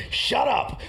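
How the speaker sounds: high-pitched retold "shut it"; mock angry snap. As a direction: imitate cutting the old man off. Retold caller silencing his grandfather.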